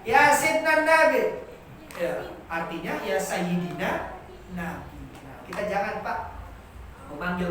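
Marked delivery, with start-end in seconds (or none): 0.1-1.4 Arab pronunciation. Retold or imitated. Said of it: "Mereka mengatakan".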